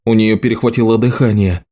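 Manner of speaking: ordinary delivery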